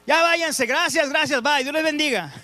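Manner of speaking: lightly voiced Jesus politely sending everyone home; friendly dismissal, half playful; Jesus shooing the crowd. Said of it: "No sé cómo los despidió, amablemente".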